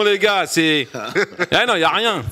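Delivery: chuckling through the words; amused, half laughing. Real, not acted. Laughing while mocking Brest.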